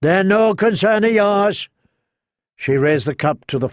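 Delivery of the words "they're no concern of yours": mild snap. Acted. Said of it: "the townsman snapped".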